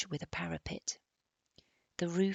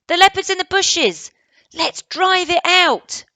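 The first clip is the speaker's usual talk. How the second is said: high, loud rallying shout; 13 semitones higher, 18 dB louder than usual. Acted. Barney rallies the hunters, shouting high and loud. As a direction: rouse the crowd to the chase. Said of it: "shouted Barney".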